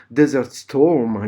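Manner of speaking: slow, deliberate mock English accent. Shown as a demonstration. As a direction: pronounce Desert Storm with a self-mocking English accent, stretched out. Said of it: "vous remarquerez mon accent, euh, anglais".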